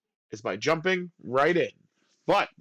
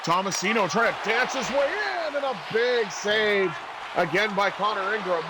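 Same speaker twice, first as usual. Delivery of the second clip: excited play-by-play; 2 semitones higher than usual. Real, not acted. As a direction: build up to the big save. Live call of a big save.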